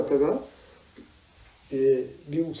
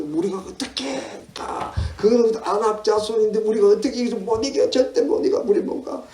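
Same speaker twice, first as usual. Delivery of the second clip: high-pitched acted rebellion; defiant protest; 6 semitones higher than usual. Rebellious Israelites confront Moses and Aaron, defiant protest. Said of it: "덤비 들고 반항하고 싸우고".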